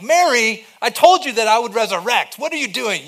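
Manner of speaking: loud, high-pitched mock scolding. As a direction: act out an exasperated telling-off. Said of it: "He doesn't approach her scolding".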